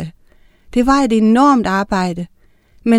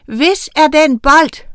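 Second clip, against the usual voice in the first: wysokie, głośne, wolne wołanie postaci; okrzyk; 6 semitones higher, 6 dB louder, slower than usual. A narrator's reading. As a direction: shout the question, high and drawn out. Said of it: "råbte hun".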